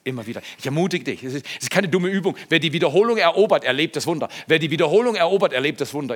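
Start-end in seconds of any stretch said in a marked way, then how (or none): 2.5-4.3 loud, fast, driving proclamation; proclaimed motto. Real, not acted. 4.5-6.2 same motto again, loud and fast; proclaimed motto. Real, not acted. Motto repeated.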